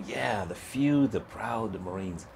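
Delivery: put-on a kid quietly reciting the slogan he dreams of; dreamy, awed slogan. Young recruit to himself, hushed and slow, in awe. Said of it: "And I go".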